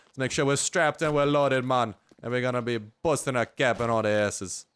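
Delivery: put-on playful, punchy go at a Jamaican accent; attempted Jamaican accent. Streamer hyping up being armed, attempted Jamaican accent. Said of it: "my attempt at a Jamaican accent".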